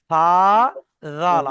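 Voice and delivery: সা and জাল both said with tongue on upper teeth tips; light সা and জাল, tongue touching upper front teeth; tongue-tip demo. Shown as a demonstration. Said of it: "সা যেমন বলেছিলাম".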